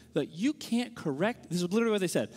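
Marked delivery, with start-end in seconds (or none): 0.3-1.5 slow, imitated scolding; mock indignation, drawing the words out; mad. Street preachers rebuking him behind the booth, mad. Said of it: "And they're really mad".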